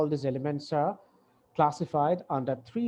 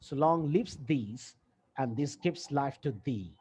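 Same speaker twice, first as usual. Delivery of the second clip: slow, measured reading of the sonnet; poem recital; much slower than usual. Shown as a demonstration. Teacher reciting Shakespeare's sonnet to the class, slow and measured. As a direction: read each line slowly, savouring it.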